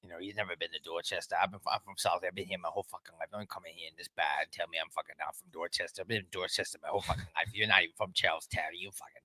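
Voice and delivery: put-on thick Boston guy accent, heated bar-argument rant. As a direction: play a worked-up Boston townie in his Boston accent. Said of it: "we're just doing Boston, Boston accents".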